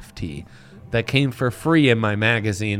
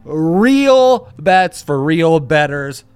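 slow, punchy tagline; slow ad slogan; much slower than usual. Acted. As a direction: lean on each word.

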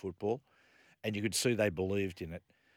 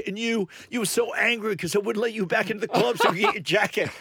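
laughing through quote; 12 semitones higher, 7 dB louder than usual. Retold or imitated. Laughing retelling bouncer's words.

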